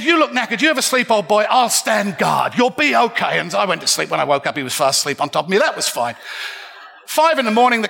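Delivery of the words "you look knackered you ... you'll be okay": put-on kindly old gent. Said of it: "he said".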